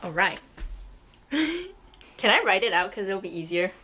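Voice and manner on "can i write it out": laughing. Real, not acted. Asks while laughing.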